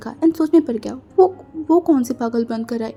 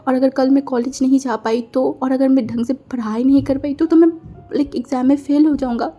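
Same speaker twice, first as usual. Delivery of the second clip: a touch of whiny tearfulness; crying voice; 2 semitones higher than usual. Acted. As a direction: complain half-tearfully, lightly raised. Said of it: "रोने वाली voice में बोला". (हल्की रोनी आवाज़ में शिकायत करना)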